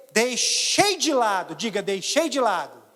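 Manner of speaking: ordinary delivery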